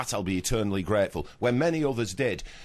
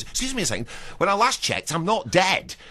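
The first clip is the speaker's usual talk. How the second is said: retold retort; 7 semitones higher, 4 dB louder than usual. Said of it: "As I've had to say to one or two interviewers".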